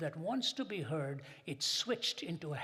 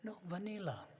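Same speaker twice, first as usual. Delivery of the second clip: sweet waitress voice; 3 semitones higher than usual. Retold or imitated. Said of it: "she spoke in a sweet voice".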